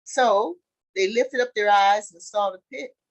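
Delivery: loud, deliberate scripture reading. A narrator's reading. Teacher reads the Joseph story to the group, deliberate scripture reading. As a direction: read it out slowly in weighty phrases.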